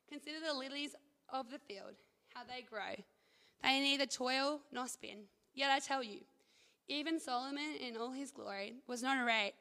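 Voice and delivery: measured, deliberate Bible reading with pauses; scripture reading. Real, not acted. Reads scripture aloud to group.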